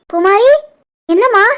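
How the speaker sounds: loud, urgent short questions; alarmed call. Acted. Mother woken by labouring daughter, calling in alarm. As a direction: call out in sudden concern.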